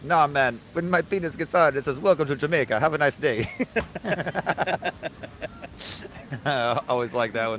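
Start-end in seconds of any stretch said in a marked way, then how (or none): 0.0-3.5 Jamaican punchline. Retold or imitated. 3.5-6.4 laugh at own joke. Real, not acted.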